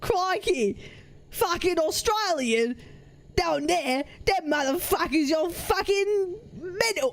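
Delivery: badly faked Australian accent; comic attempt at an Aussie accent. Shown as a demonstration. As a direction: have a shaky go at Australian. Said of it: "how the fuck do I do Australian".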